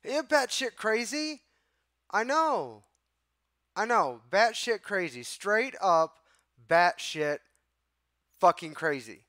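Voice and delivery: venting real outrage at a caller; real exasperated near-shout; exasperated outburst. Real, not acted. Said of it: "I'm pissed".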